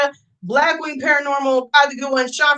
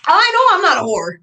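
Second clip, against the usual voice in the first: laughing it off; 5 semitones higher, 5 dB louder than usual. Real, not acted. Laughs off insult.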